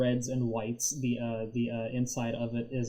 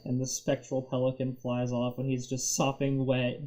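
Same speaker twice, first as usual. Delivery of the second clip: ordinary talk, nothing marked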